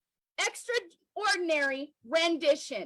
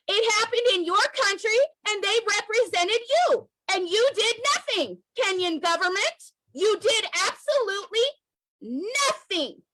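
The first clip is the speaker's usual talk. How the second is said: raised, heated voice hammering the blame home; angry scolding; 4 semitones higher, 3 dB louder than usual. Real, not acted. Activist scolding the Kenyan government, loud and heated. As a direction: tell them off to their face.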